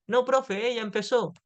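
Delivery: put-on a child insisting it wasn't them; defensive schoolkid. Otro alumno se defiende ante profe. (alumno que se defiende ante la profe, voz infantil algo más aguda)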